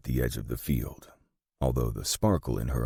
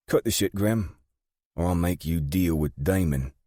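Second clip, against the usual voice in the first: higher voice, impatient warning; British gang boss, threatening; 5 semitones higher, 3 dB louder than usual. Acted. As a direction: warn him off as the no-nonsense woman boss.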